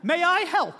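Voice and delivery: put-on high, loud small-child voice; three-year-old daughter in nurse's outfit at the door; little girl. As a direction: offer help like a proud toddler. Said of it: "she stands in the doorway like this".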